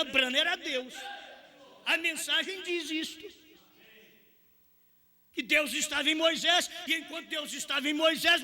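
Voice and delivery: high, forceful preaching voice; pregação inflamada. Acted. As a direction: preach it high and insistent, driving each point home. Prega com toda a força. (pregação inflamada em tom alto)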